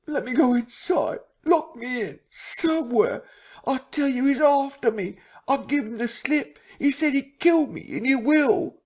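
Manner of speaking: high, frantic tearful begging; weeping, terrified plea. A narrator's reading. Marvel pleading with the men to lock him in, weeping. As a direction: beg for your life through tears. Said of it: "staggering and weeping".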